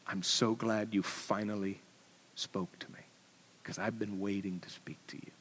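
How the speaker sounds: low, hushed voice of the lion; large voice, hushed. Acted. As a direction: speak low and breathy, almost a whisper. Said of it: "described as the large voice".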